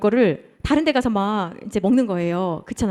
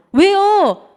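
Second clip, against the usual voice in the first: loud, high-pitched challenging why; acted indignant retort; talking back; 8 semitones higher, 7 dB louder, much slower than usual. Shown as a demonstration. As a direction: fire the question back defiantly. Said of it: "반문하는 거".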